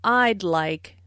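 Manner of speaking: "I'd like" with a clear d ending "I'd"; "I'd like", d not dropped; audible D in I'd. Shown as a demonstration. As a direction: sound the d before the l of "like". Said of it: "Listen for the D in".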